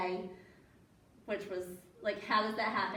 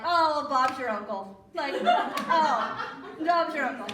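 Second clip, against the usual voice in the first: mock Aussie phrase; 3 semitones higher, 6 dB louder, slower than usual. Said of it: "But it's like".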